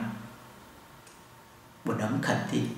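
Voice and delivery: very slow, breathy model phrase; slow Mandarin drill voice; slow demo. Shown as a demonstration. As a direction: spell it out slowly for the class. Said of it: "anh nói".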